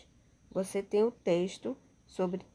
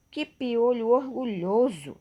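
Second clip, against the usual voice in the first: loud, lifted cry of admiration for a proud louse; teacher acting out amazement at a louse; admiring exclamation; 3 semitones higher, 6 dB louder than usual. Shown as a demonstration. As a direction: exclaim in mock wonder. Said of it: "transmitindo aí uma admiração".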